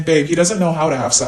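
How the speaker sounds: lightly laughing quote of a friend; imitated amused reassurance. Best friend cheering her up on FaceTime, lightly laughing. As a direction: tease it with a touch of laughter. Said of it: "started laughing and saying".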